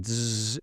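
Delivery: a short electrical zzz buzz; imitated buzzing. Narrator mimicking the buzz from the exorcism room, electrical zzz. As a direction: buzz through the teeth like live wires. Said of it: "electrical buzzing from the room".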